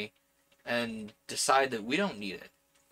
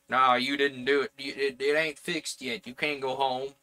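put-on folksy "ain't" accent, wrong for New Jersey; a miscast regional accent for a New Jersey relative. Relative refusing to let them go home, in the wrong Jersey accent. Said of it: "that's the wrong accent for New Jersey".

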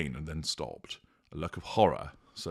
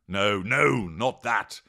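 growled; 3 semitones higher, 4 dB louder, slower than usual. Acted. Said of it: "growled Death".

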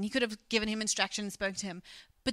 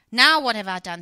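indignant shout; 12 dB louder than usual. Acted. David snaps back at brother.

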